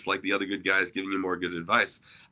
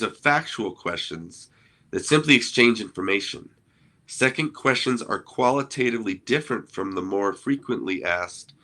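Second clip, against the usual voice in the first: reading aloud. Shown as a demonstration. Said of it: "let me just read how he describes".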